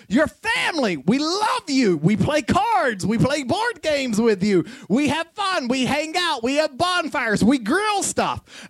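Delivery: enthusiastic list, punched phrase by phrase; eager welcome. Retold or imitated. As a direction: gush mildly, each item swooping up then down. Voices family eagerly welcoming a newcomer.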